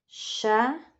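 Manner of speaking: "chapéu" with a long pause between cha and péu; syllable division. Shown as a demonstration. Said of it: "como a gente separa chapéu". ("chapéu" separado em duas sílabas, com pausa longa)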